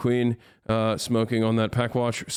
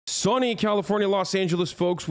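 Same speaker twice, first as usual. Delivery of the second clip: announcer voice; 7 semitones higher than usual. Pretend. Mock broadcaster intro.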